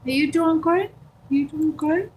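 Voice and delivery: high cooing question to a pet; pet talk. Real, not acted. Talking to her dog.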